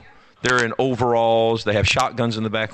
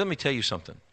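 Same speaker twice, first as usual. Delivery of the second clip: quiet menace; 3 semitones lower, 8 dB quieter than usual. Retold or imitated. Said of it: "He said".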